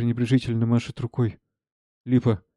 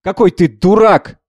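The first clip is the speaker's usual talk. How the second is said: slow, higher-pitched acted shout; 8 semitones higher, 10 dB louder than usual. Savva berates Kondraty, shouting in exasperation. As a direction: cry it out, drawn out. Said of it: "Савва кричит".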